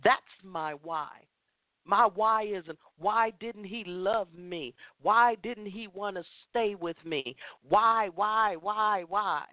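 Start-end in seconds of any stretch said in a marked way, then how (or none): 3.0-9.5 lightly mocking her old whining self; mock self-pitying whine. Speaker mocking her old self-pity, mild whimpering whine. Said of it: "whining and crying and moaning".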